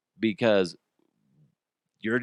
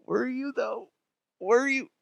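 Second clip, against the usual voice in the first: suspicious teasing; 12 semitones higher than usual. Acted. Teasing doubt about wife.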